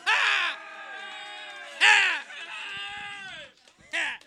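high shouted ah; shouted cry. Acted. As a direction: yell out ah. Shouting after punchline.

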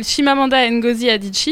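"Chimamanda Ngozi Adichie" said smoothly and confidently; careful name pronunciation. Real, not acted. Co-host asked to pronounce the author's name, saying it fluently. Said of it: "tu prononces bien mieux que moi son nom".

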